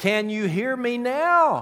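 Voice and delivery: almost shouting. Retelling a joke: a man right behind a woman repeats his question, almost shouting. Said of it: "almost shouting said".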